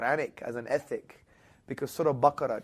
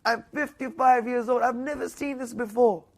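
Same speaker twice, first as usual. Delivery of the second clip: much higher and louder, overcome; retold tearful wonder; 10 semitones higher, 8 dB louder than usual. A visitor telling his hosts he's never seen this, higher and louder. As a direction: say it like a man near tears. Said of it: "and he was crying".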